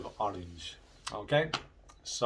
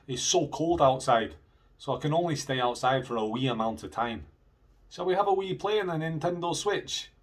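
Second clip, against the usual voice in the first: Scottish examples; 5 semitones higher, 4 dB louder than usual. Shown as a demonstration. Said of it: "how they would say that in Scotland".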